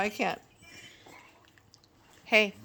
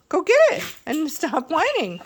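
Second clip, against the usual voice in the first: higher, louder coaxing breaking into a laugh; 9 semitones higher, 7 dB louder than usual. Real, not acted. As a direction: laugh while telling the dog off. Laughs while urging dog.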